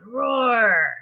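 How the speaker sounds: loud playful engine roar. Acted. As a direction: roar like a bulldozer for the kids. Bulldozer makes thunderous sound.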